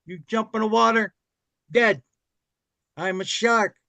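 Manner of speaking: lightly voiced Robert De Niro; De Niro impression. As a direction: play the shark as De Niro. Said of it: "Robert De Niro would play the shark".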